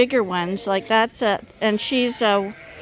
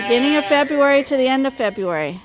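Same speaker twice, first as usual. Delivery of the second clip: higher, brisker repeat; repeated answer; 4 semitones higher, 3 dB louder, faster than usual. Real, not acted. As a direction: say it over quickly, raised pitch to be heard. Repeats answer to interrupted question.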